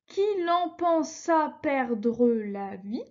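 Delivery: slow, syllable by syllable verse reading; scanning syllables slowly. Shown as a demonstration. Teacher scanning a verse for her class, slow and measured. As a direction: count out each syllable of the line as you read. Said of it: "Et puis on continue".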